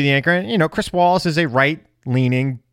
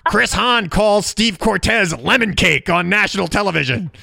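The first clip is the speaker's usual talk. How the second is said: laughing; 6 semitones higher than usual. Real, not acted. Laughing at own joke.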